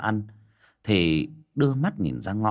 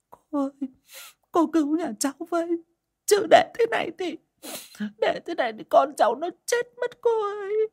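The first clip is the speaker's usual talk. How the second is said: much higher, crying beg; high tearful wailing; sobbing plea. A narrator's reading. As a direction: beg desperately through sobs. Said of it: "khóc nấc lên ... khẩn khoản".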